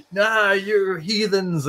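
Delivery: slow, drawn-out scoffing priest; slow dismissive priest. Retold or imitated. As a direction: drag it out like a sneering priest.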